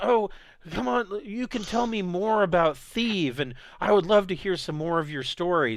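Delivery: put-on excited, jealous, eager gushing in high child voice. Voicing an eight-year-old hopping up and down beside a visitor: excited, jealous eight-year-old. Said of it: "she starts to hop up and down".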